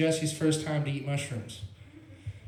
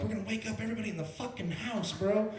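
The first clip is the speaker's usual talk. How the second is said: mock panic; 5 semitones higher than usual. Panicking about blaring TV.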